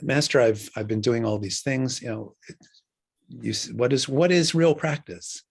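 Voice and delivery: mildly exasperated student, rising on the final question; a touch of acted exasperation. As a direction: imitate a student pleading for an answer. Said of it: "the student is so exasperated".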